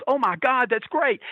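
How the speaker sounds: high, mildly excited retelling; lightly acted glee; imitated delight. Imitating J J's delighted reaction.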